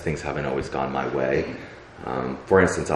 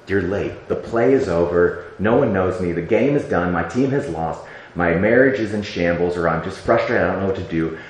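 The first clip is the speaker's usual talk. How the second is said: louder, exasperated list of losses to God; frustrated complaint; 3 semitones higher, 3 dB louder than usual. Retold or imitated. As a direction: vent to God, voice rising at the worst parts.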